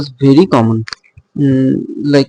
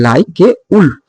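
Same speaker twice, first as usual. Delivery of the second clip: "like a" light, then stress "wolf"; 3 semitones higher than usual. Shown as a demonstration. Teacher showing an anapaest, stress on "wolf". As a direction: land the beat on "wolf". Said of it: "the stress in, is in the wolf".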